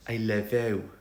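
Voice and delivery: put-on tender Welsh accent; Welsh Tamlin. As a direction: Welsh accent, romantic declaration. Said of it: "Tamlin says things like".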